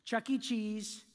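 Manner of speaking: deliberate mock PA announcement, pausing before the punchline; very clear announcement. Employee defies hovering manager over the microphone, very clear announcement. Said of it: "very clearly, I said".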